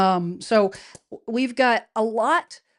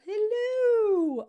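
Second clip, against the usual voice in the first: very high, long-held falsetto hello; Mrs. Doubtfire; 12 semitones higher than usual. Acted. Host repeating a film character's greeting, high and drawn out. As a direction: swoop up high and hold it. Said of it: "Is that like Missus Doubtfire?".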